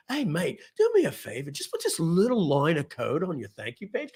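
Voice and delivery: terrible mock Australian accent; lilting, badly faked Australian. Pitching a mate on one line of code, bad Australian accent. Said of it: "Terrible accent, I'm sorry".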